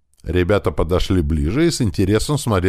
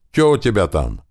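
higher, louder shout over gunfire; loud yelling; 6 semitones higher, 3 dB louder than usual. Acted. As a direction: yell the ambush report. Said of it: "заорал Михайлов особенно громко".

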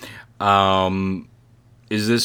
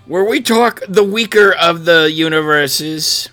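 put-on Scottish accent; 7 semitones higher, 6 dB louder than usual. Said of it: "that is a horrible Scottish accent".

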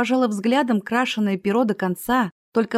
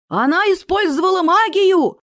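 much higher, louder furious yell; 11 semitones higher, 7 dB louder than usual. A narrator's reading. Dwarf yells at the crowd that she used magic. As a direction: bellow the accusation. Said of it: "заорал гном".

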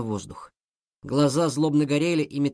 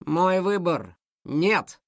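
defiant shout; 3 semitones higher, much slower than usual. Acted. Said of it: "громко крикнул Мотя".

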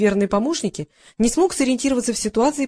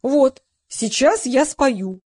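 slow, higher-pitched delight; 4 semitones higher, 4 dB louder, much slower than usual. A narrator's reading. Old singer seeing flowers and expecting to sing, delighted. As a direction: draw it out, pleased with himself. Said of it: "обрадовался депутат".

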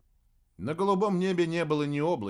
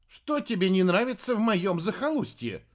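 stung, higher and sharper; touchy witch; 6 semitones higher, 4 dB louder than usual. A narrator's reading. Witch hurt by remark on her home, touchy. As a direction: ask it as if offended. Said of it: "отреагировала болезненно".

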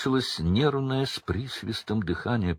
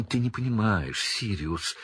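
whining; 2 semitones higher than usual. Acted. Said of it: "проскулил Петтигрю".

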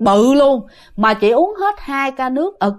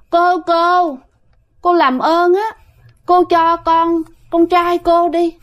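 pleading spirit, higher and coy; gentle coy spirit voice; 5 semitones higher, slower than usual. Retold or imitated. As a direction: beg sweetly like a girlish ghost. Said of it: "nói nhẹ nhàng lắm nghe, mà dẹo còn hơn Thi nữa".

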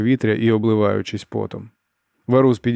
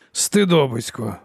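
scolding exclamation; 3 semitones higher, slower than usual. A narrator's reading. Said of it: "вигукнув старий".

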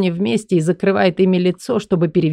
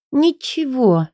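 Элли's voice; 7 semitones higher, slower than usual. Acted. Элли voiced.

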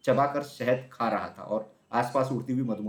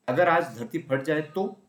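raised, slow fearful wondering; loud worried question; 5 semitones higher, 5 dB louder, slower than usual. A narrator's reading. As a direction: ask it aloud, half asleep and uneasy. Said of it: "उसने ऊंची आवाज में कहा". (ऊंची आवाज में डरा हुआ सवाल)

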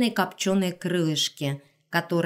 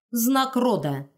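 carefree smile; 5 semitones higher, slower than usual. Acted. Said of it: "бесшабашно улыбнулся".

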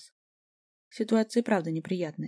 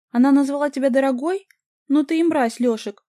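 high, loud furious shout; outraged yelling; 6 semitones higher, 9 dB louder than usual. A narrator's reading. Vika screams at her ex-boyfriend, loud and high. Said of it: "завопила Вика".

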